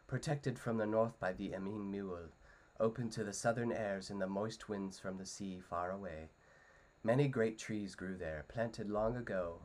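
lightly voiced storytelling read; Frodo storytelling. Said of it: "here's my best Frodo impression".

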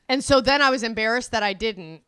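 usual speaking voice

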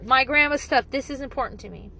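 clear and calm. Retold or imitated. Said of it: "she'll say very clearly".

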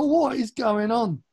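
loud, high, astonished outburst; reliving stunned excitement at full volume; shocked disbelief. Retold or imitated. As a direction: lose it in amazement. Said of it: "I was so shocked".

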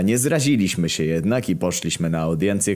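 ordinary delivery

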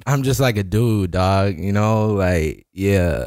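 low, slow-rolling stoner impression; laid-back, low celebrity impression; Donald Glover. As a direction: do a mellow dude, pitch dropped. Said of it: "Donald Glover impression".

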